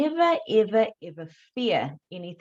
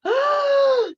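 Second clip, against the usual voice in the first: sharp gasp; 8 dB louder than usual. Retold or imitated. Waking with a start.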